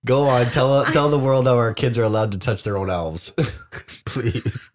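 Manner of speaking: stifled giggles; choking back laughter while teasing; trying not to laugh. Real, not acted. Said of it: "I'm trying to keep a straight face".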